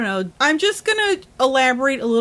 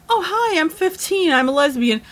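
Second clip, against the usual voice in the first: higher, sing-song mock of a naive teen; mock teenager; 4 semitones higher than usual. Mocking a fifteen-year-old who claims to be a lesbian, higher sing-song voice. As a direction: parody a kid announcing herself, starting high.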